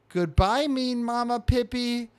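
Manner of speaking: high, loud little-critter call; baby squirrel farewell. Acted. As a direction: call goodbye in a childlike high voice. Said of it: "the baby squirrel's on a branch waving".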